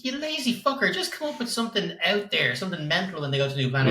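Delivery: high, exasperated jab at lazy writers; high-pitched mock fury at the filmmakers; exasperated rant. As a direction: scold the writers in mock outrage. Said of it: "It's like".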